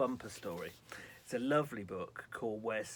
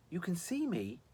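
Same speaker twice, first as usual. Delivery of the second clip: higher, mildly incredulous question; 6 semitones higher, 3 dB louder than usual. A narrator's reading. Visitor astonished the girl can see him, incredulous. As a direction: ask it in disbelief, barely projected. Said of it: "he whispered, incredulous".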